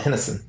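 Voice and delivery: "Hennison" with the middle swallowed; locals' slurred "Hennison"; local pronunciation. Shown as a demonstration. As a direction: say "Hennison" for Henderson, dropping the d and r. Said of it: "People call it Hennison".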